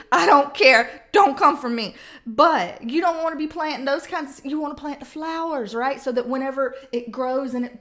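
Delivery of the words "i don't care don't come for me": playful defiance. Real, not acted. Joking defiance.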